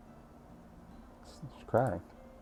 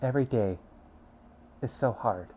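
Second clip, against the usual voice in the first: tearful; 8 dB quieter than usual. Acted. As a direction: speak quietly through tears. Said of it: "Suki sobs again".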